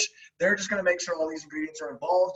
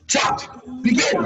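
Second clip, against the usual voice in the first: whispered announcer; 7 dB louder, much slower than usual. Pretend. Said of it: "it's probably something like".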